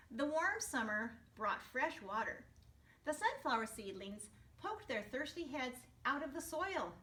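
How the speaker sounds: put-on gentle storybook narration to kids; storyteller voice for young listeners; reading to children. A narrator's reading. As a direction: read it like story time for a class. Reading picture book to class.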